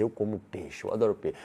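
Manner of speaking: level, settled statement with no doubt; firm voice. Shown as a demonstration. Coach showing how to tell a date your preference, firm and assured. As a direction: state it plainly and surely. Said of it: "sempre voz de firmeza".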